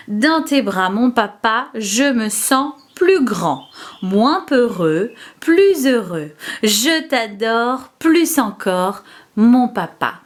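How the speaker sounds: slow, measured verse, line by line; poem recitation. Shown as a demonstration. Teacher reciting a Father's Day poem for children to learn, slow recitation. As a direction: recite it slowly, phrase by phrase for children. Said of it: "Je vais vous réciter les vers".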